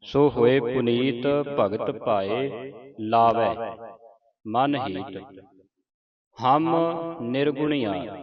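measured Gurbani recitation with drawn-out vowels; scripture recitation. Acted. Teacher reciting Gurbani for students to follow, measured recitation. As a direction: recite each phrase clearly, pausing between phrases.

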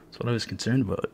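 rushed aside to yourself; quick mutter. Real, not acted. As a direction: mutter it under your breath quickly. Repeats complaint, then mutters it.

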